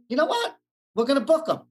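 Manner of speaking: retold sudden enthusiasm. Studio reverses decision, retold.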